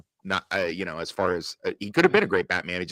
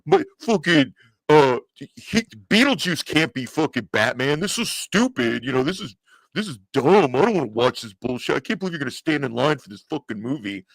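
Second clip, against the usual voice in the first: higher, ranting complaint; mock angry uncles; 3 semitones higher than usual. Retelling how his uncles ranted about the Keaton Batman, a mocking angry rant. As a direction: rant like annoyed old-school fans. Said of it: "And they're like".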